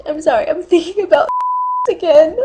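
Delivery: fast, welling-up apology; tearing up. Pretend. Apologizing for thinking about cats, tearing up. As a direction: apologize quickly as the tears return.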